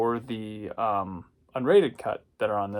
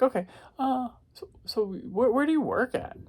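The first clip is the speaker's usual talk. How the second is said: high, probing woman's voice; curious woman; 12 semitones higher than usual. Retold or imitated. Quoting the curious woman questioning him, high and sweet. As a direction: fish for his name sweetly, pitched up.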